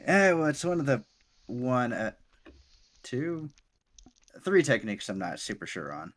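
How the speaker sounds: a touch of an embarrassed teacher; lightly voiced sheepish mentor. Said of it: "he kinda rubs the back of his head and he's like".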